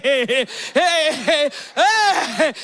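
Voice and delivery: high repeated "hey" cries; imitated wailing. Answering about giving birth again, comic imitated wailing. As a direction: wail out a string of mock labor cries. Retold wailing during labor.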